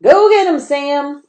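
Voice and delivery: very high, loud cheer; urging shout. A narrator's reading. Boy cheering Sam on as he digs. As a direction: egg the dog on with a shout. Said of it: "urged another boy".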